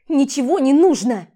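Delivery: loud shout; furious shout. Acted. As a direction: hurl the words at him. Throwing jewels at husband. (яростный крик)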